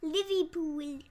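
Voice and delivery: put-on British accent. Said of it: "is that your British accent?".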